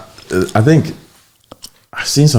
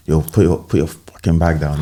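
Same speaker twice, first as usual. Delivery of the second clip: slow, blunt demand with a swear; the rude way, bossing them about; blunt rude order; 2 semitones lower than usual. Shown as a demonstration. Showing the rude way to order a commuter, blunt. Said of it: "instead of".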